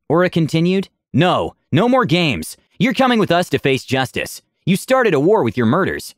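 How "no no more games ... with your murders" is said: higher, urgent accusation, not full volume; mild angry shout. Acted. Aura accusing Vitor of starting the war, mild shout. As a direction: shout at him, but held back. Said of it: "she shouted".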